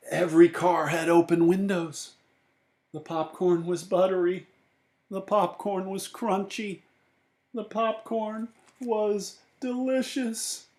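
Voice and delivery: dreamy rising narration. A narrator's reading. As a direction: savour each popcorn line, drifting up and slowing.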